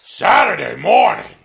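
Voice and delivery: loud, slow, drawn-out; slow excited exclamation. Acted. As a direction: stretch it out with relish. Host exclaims slowly.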